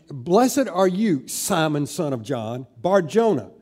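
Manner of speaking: "Blessed are you" drawn out slowly, each name set apart; "Simon", "son of John", "Bar-Jonah" as separate emphatic names; added emphasis. Acted. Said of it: "is adding emphasis".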